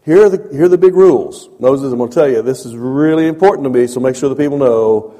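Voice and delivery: God laying down rules. Retold or imitated. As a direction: boom it out as God giving the big rules. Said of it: "And he says".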